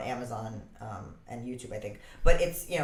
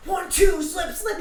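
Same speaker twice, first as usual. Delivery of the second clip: higher and louder drill count; mock shout; 6 dB louder, slower than usual. Counting punches out loud at the heavy bag. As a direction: call the combo out.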